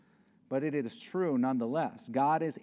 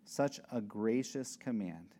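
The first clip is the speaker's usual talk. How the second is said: scripture reading; 3 semitones lower than usual. Shown as a demonstration. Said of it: "In verse six".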